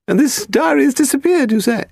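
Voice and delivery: put-on high, haughty elderly lady; very old woman. A narrator's reading. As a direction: play a grand, frail old aristocrat. Lady Delamore talking.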